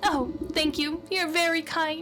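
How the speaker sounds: sweet, grateful maiden. Acted.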